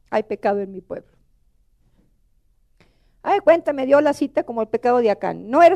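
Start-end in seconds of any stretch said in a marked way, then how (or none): 0.1-1.1 low, softer, solemn answer; voice of the Lord. Retold or imitated. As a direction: quietly deliver God's verdict. Voices the Lord's short answer. (voz grave y baja del Señor)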